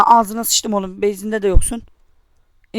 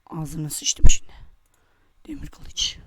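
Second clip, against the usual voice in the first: slow whispered curse under the breath; 6 semitones lower, 4 dB quieter, slower than usual. Real, not acted. Gamer cursing to himself after a hit, slow whisper. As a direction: hiss the curse quietly to yourself, slow.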